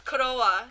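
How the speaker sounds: "kurowa" with a vowel slipped between k and r; Japanese-style "kurowa"; Japanese pronunciation. Shown as a demonstration. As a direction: say "kurowa" the Japanese way, ending on an open a. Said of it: "the way Japanese say cro".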